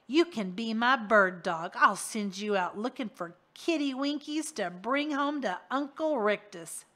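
a leering crook talking down to a pet; mocking villain. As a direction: sneer as if coaxing a dog. Rictus taunts Harvey as pet.

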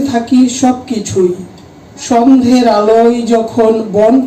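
measured Bengali verse, line by line; poem recitation. Acted. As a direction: recite it as a poem, letting each phrase stand between pauses. (Bangla কবিতা আবৃত্তি)

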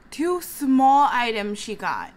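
slow, laughing through the words; laughing at how petty it was. Real, not acted. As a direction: chuckle it out in disbelief. Laughing over customer's fuss.

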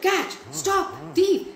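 high, loud string of alarm calls; shouted. Retold or imitated. Robbed gentleman shouting to the crowd, high loud alarm. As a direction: call the street to chase him. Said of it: "So he shouted".

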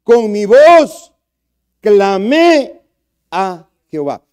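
loud, slow, drawn-out cry. Shown as a demonstration. Preacher showing the church real crying out, loud and slow. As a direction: show them what crying out to God means. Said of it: "eso no es clamar".

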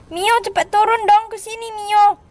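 lightly play-acted urgency; calling out. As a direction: summon a little one down to you. Calling Mio down.

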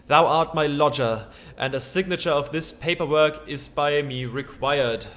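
a lightly voiced old-fashioned landlord; archaic speech. Landlord demanding the lodger sign paperwork, mock archaic. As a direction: speak in stiff olde English. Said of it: "Why did you start talking like that?".

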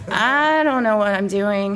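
sheepish confession; confessing. Acted. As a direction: admit it awkwardly. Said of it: "he confesses".

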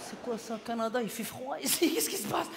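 lightly acted bewildered newcomer, starting soft and rising; père ahuri au réveil. Acts father waking in Canada. (père immigré un peu ahuri, joué)

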